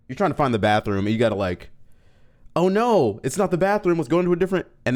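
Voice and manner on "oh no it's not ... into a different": higher, louder mock-panicked cry; playfully frantic, pitched way up. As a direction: act out a comic bathroom emergency. Acting out frantic bathroom search.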